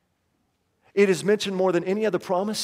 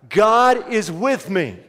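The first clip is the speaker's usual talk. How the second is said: slow, loud and emphatic; louder final declaration; 2 semitones higher, 5 dB louder, much slower than usual. Shown as a demonstration. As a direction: declare it with full conviction. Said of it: "One more time".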